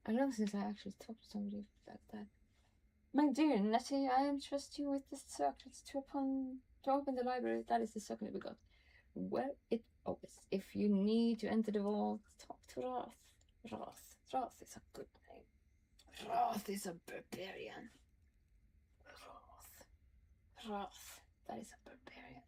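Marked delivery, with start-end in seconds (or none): 3.1-10.4 reading a letter aloud, lightly formal. Acted. Reads Halsin's letter aloud. 12.4-22.4 reading a letter aloud, lightly formal. Acted. Reads Halsin's letter aloud.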